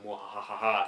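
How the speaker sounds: evil villain laugh; mad scientist. Pretend. Mock evil world domination.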